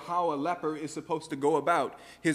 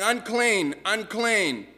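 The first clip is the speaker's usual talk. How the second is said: leper's warning call; 4 semitones higher, slower than usual. Acted. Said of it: "someone getting close to you saying".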